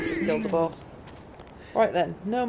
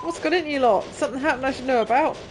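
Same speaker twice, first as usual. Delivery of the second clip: a touch higher, dazed then delighted hero; lightly voiced game character; 6 semitones higher, 3 dB louder than usual. Gamer reading the revived character greeting her friend, lightly voiced. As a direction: play the woken hero, surprised then gushing.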